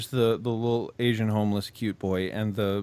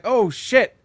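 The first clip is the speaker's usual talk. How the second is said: surprised gasp; 9 semitones higher, 5 dB louder than usual. Retold or imitated. Retold shock, high.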